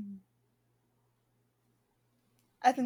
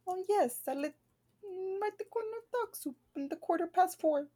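a playful, put-on British accent, pitched up; attempted British accent, a bit higher; mock British accent; 7 semitones higher, 6 dB quieter than usual. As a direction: try out a British accent for fun. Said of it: "I was trying to talk in a British accent".

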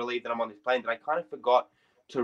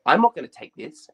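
mildly furious retort, louder and higher; 4 semitones higher, 7 dB louder than usual. Retold or imitated. Taxi driver refusing the passenger's card, mock furious. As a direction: imitate an angry driver's refusal. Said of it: "he looks at me furiously and goes".

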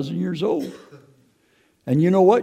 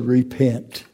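quiet repent; 4 semitones lower than usual. Retold or imitated. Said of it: "He just said".

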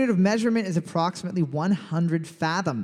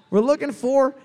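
lightly voiced high cartoon wombat; a hint of a silly animal voice, pitched up; 6 semitones higher, 4 dB louder than usual. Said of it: "That was my wombat voice".

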